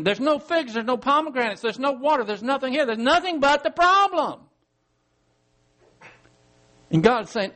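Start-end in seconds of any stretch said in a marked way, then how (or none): 0.0-4.4 mock whine, pitched up and rising toward the end; whiny complaining. A believer complaining to God, mock whine. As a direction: imitate a grumbler listing what's missing. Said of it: "And you're complaining".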